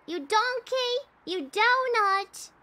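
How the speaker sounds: mock chef's tirade building to a high, loud cry; angry chef. Player scolding over the salmon, hammed-up angry chef.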